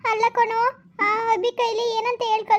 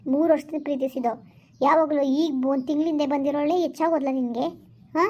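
lower, heavy, disgusted reproach; bitter heartbreak; 4 semitones lower than usual. Acted. Betrayed girlfriend telling Arun he has changed, low and bitter. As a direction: let the betrayal sink the voice down.

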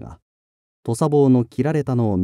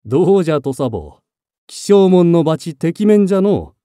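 laughing; 5 semitones higher, 6 dB louder than usual. Acted. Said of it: "義経は笑いながら言った".

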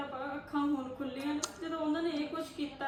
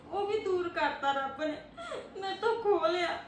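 crying; 3 semitones higher than usual. Acted. Widow grieving her lost husband.

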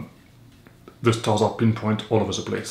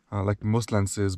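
softer drowsy morning voice; sleepy voice; 4 dB quieter than usual. Real, not acted. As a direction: say it like you barely woke up. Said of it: "sleepy voice in the morning".

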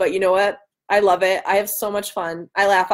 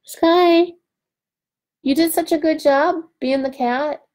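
higher, sing-song pet praise; praising the cat; 4 semitones higher than usual. Real, not acted. To her cat Sky after filming, fond praise. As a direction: coo over the cat for being good.

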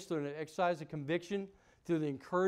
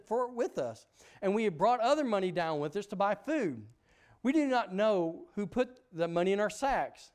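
guilty plea; 4 semitones higher, 4 dB louder than usual. Acted. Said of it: "And they said".

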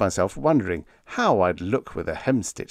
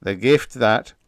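self-satisfied boast, pitched up; preening; 7 semitones higher, 6 dB louder than usual. A narrator's reading. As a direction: preen over your own cleverness. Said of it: "he preened himself".

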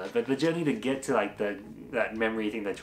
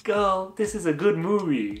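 mock exasperated scolding; 8 semitones higher, 4 dB louder than usual. Mock-scolding the girl in cinema.

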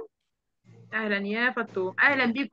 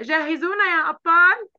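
louder rallying call; loud cartoon call; 4 semitones higher, 5 dB louder than usual. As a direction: call it out, drawn out. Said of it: "الأبطال صوتها ضعيف ليه كده".

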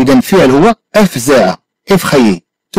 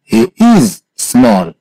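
broken-up model; 2 semitones lower, much slower than usual. Shown as a demonstration. Teacher recaps "he is small" for a student, in pieces. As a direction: split it, lifting "he is" and dropping on "small".

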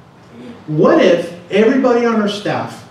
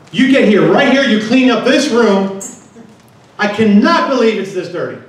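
raised, scolding dad voice; retold scream; 4 semitones higher than usual. Dad ordering daughter to clean the room, retold scream. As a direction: re-enact a mild parental yell, higher pitched. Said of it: "I just scream".

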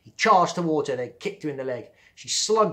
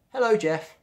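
sweet hello; 8 semitones higher, 7 dB louder than usual. Acted. Colleen greets Jeff, high.

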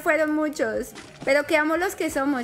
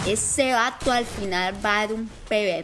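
put-on Mexican accent; 7 semitones lower than usual. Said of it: "¿Qué tal me salió el acento mexicano?".

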